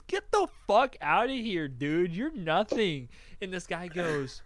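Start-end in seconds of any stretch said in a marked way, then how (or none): 0.0-3.1 mock dismissal. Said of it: "And some guy goes".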